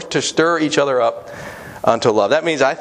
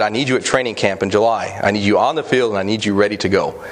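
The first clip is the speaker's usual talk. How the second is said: mildly stern retold coach, even and firm; 3 semitones lower than usual. Coach leaning over his sick assistant in hospital, mildly stern. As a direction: lightly imitate a coach's stern order. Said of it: "in a very stern voice".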